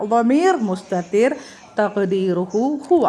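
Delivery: ളമീർ മുസ്തതിർ തഖ്ദീറുഹു ഹുവ recited slowly, word by word; teacher slowly reciting the grammar formula to students; slow recitation. Shown as a demonstration. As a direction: chant the formula slowly for memorising.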